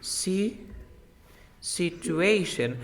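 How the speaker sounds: situation drawn out, stress on the A of -ation; stressed syllable shown. Shown as a demonstration. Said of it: "Remember the stress".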